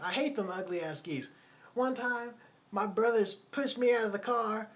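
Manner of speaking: high, loud mock woman's voice; loud, trifling woman. Lady rants to the man about geese, loud and trifling. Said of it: "she's just loud and trifling".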